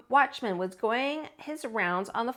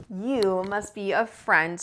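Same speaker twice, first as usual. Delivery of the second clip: tender bear voice; slower than usual. Acted. Bear to Lisa, tender. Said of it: "said Corduroy".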